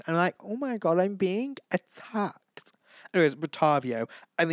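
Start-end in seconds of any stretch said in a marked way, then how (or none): 0.4-2.7 high-pitched, drawn-out mock outrage; mock offence. Fan reacting to a condescending message, exaggerated offence. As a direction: act personally attacked, voice pitched up.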